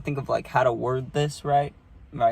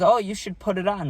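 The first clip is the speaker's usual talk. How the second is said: grandma voice; 8 semitones higher than usual. Retold or imitated. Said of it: "And she goes".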